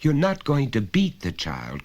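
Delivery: alarmed cry. Acted. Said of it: "cried Missus Carter".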